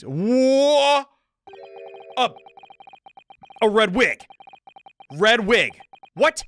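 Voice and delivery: surprised. Real, not acted. Startled by red wig.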